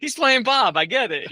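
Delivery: high, loud and laughing; laughing through a quote. Retold or imitated. Mimicking audiences who get the joke, laughing. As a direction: blurt it out mid-laugh.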